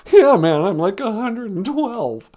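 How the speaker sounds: put-on high, laughing old lion; lion caller voice. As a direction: play the cowardly lion, a bit sheepish.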